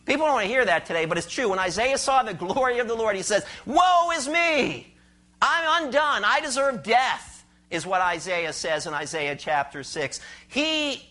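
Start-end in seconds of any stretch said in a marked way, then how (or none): 3.7-7.4 drawn-out anguished lament; Isaiah's lament. Retold or imitated. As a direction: cry out like a prophet undone before God. Isaiah's cry before God's glory.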